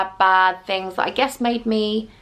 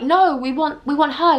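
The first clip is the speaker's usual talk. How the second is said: raised-pitch mock French accent; rough, put-on French accent; 5 semitones higher than usual. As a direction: imitate the French waiter. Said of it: "I'm trying to do a French accent".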